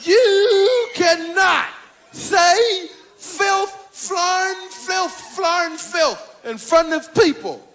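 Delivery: wag a finger at the dirty comic; indignant older comic scolding. Retold or imitated. Bill scolding about filth.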